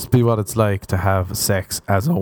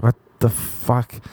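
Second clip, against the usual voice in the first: baffled; slower than usual. Retold or imitated. Left confused by book ending.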